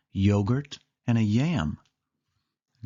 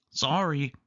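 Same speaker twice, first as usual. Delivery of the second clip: higher judge voice; Donald voice; 5 semitones higher than usual. Acted. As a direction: apologise briskly as Donald. Donald rejects Goofy's soup.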